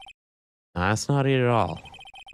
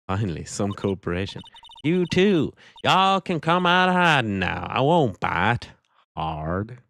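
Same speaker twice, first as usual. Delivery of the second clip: put-on Southern accent. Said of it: "the southern accent and attitude".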